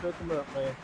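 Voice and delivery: a hint of rambling Texas good old boy; Boomhauer. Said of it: "you did an excellent Boomhauer impression".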